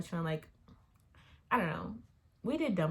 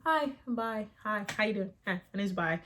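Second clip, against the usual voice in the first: high, chirpy over-friendly hellos; mock oversharing greeting; 4 semitones higher than usual. Mocking people who broadcast their business, bubbly fake greeting. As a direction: bounce in like a stranger announcing everything. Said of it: "broadcast it to everybody".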